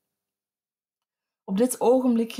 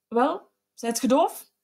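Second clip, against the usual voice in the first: a touch raised, slow and threatening; menacing call; 3 semitones higher, slower than usual. A narrator's reading. Husband to his frozen wife, mild menacing call. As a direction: lean on her with a slow menace. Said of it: "riep Kloet met nog vervaarlijker gelaat".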